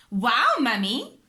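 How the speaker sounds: loud, slow, amazed wow; cheering. A narrator's reading. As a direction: cheer in wonder. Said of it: "Peppa and George cheered".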